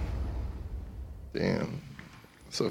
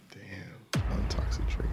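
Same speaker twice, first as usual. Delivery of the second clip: whisper; 5 dB quieter, slower than usual. Real, not acted. Thinking aloud to himself.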